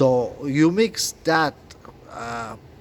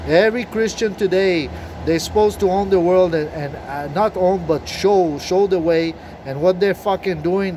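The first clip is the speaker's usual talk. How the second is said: louder, higher, furious ranting; angry rant; 5 semitones higher, 4 dB louder than usual. Real, not acted. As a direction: shout it out, fed up with everyone. Ranting at Christians.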